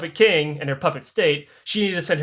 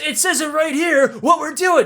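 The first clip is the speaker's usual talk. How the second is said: exasperated Catherine; 9 semitones higher than usual. Retold or imitated.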